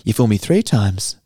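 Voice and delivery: lightly imitated silly comic voice; a hint of a goofy stand-up persona; mock-indignant bit, lightly voiced. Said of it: "he's got a silly voice too".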